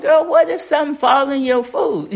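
laughing through a teasing scold; playful laughing warning to granddaughter. Retold or imitated. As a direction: chuckle while chiding the girl. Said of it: "I said".

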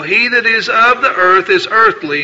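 formal, declaiming Bible reading; King James passage read from the pulpit; scripture reading. Acted. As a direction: proclaim the verses to the congregation. Reads scripture aloud.

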